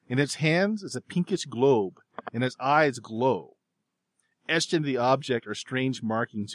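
measured, descriptive scene setting; game master narration. Acted. Game master describes the idol to players, measured narration. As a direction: paint the strange find for the players.

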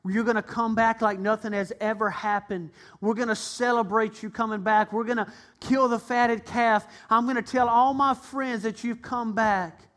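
father welcomes his son home; loving father. Acted. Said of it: "He said".

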